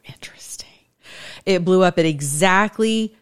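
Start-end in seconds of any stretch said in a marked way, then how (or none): 0.0-0.7 whisper. Real, not acted. Reading the footage.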